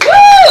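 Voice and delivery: piercing high-pitched "woo"; high whoop. Real, not acted. Comedian greeting the crowd on stage, high whoop. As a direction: cheer to fire up the room.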